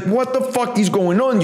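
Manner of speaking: a husband who just found out, yelling in disbelief; outraged husband. Retold or imitated. Husband confronting his cheating wife, mock outrage. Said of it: "you're like".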